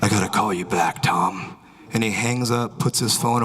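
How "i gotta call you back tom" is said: low-pitched, hushed-urgency businessman; wary businessman. Retold or imitated. Spooked businessman ending call with Tom, low tense voice. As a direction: lightly act a man cutting a call short.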